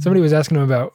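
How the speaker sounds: ordinary talk, nothing marked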